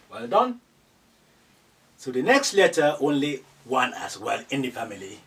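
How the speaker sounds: ordinary talk, nothing marked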